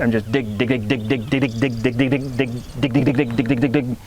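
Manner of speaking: fast repeated "dig"; rhythmic "dig, dig, dig"; dig chuckle. Shown as a demonstration. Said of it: "I'm just putting dig after".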